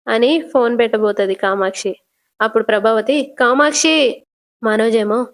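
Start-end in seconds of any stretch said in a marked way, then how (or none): 3.4-4.2 higher-pitched mock call; calling out, too loud. Prabhavati stops Kamakshi ending the call, acted calling out. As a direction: call the name to stop her hanging up. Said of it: "అమ్మా, మెల్లగా మాట్లాడు".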